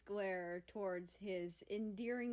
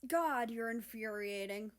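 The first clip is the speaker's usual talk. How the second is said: louder, fed-up complaint; exasperated groan; 3 semitones higher, 6 dB louder than usual. Acted. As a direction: groan it out in frustration. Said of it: "America groaned".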